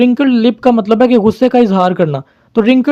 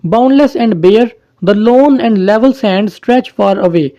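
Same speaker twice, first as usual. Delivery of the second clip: very slow, solemn verse reading; slow poem recital; much slower than usual. Shown as a demonstration. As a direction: let each word of the verse hang. Reciting the poem's closing lines.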